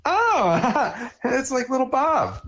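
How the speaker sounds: high-pitched cartoon character impression; Linda Belcher. Asked by a co-host for the voice, high cartoon impression. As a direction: put on a high, excited cartoon voice. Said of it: "Do the Linda Belcher voice".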